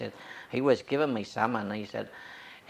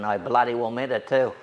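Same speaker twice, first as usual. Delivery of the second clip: louder, firm declaration; defiant retort; 6 dB louder than usual. Retold or imitated. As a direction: plant the words, louder. Priest's defiant answer, retold.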